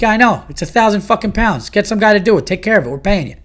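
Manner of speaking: loud exasperated retort to the contractor; exasperated rant. Retold or imitated. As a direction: tell him off like he's an idiot. Ranting back at the contractor.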